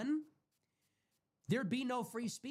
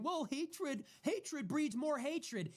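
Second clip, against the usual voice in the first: higher, very slow, drawn-out mock Somali accent; 7 semitones higher, much slower than usual. Mocking Ilhan Omar's TV remark in a slow mock Somali accent. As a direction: lampoon her Somali accent, stretching each word. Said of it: "with her fucking accent".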